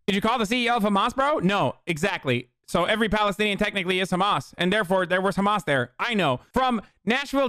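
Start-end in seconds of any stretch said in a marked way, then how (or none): 0.1-1.4 fast, raised mocking question; incredulous shout. Real, not acted. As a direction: fire it back in disbelief.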